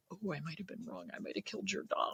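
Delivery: breathy guilty whisper, barely voiced; hushed mock confession. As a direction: confess under the breath as if ashamed. Dreaded confession acted as hushed.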